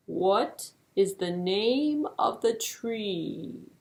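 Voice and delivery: slow, plodding tortoise voice. Acted. Slow tortoise offering to try, slow and steady. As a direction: drag the words out like a tortoise.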